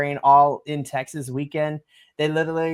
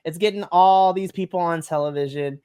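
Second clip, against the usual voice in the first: ordinary delivery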